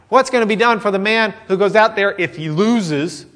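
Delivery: a timid, hedging version of the question; mock worried. What a fearful soldier would ask, mock worried. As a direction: ask it nervously, as a doubter would. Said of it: "it wasn't like".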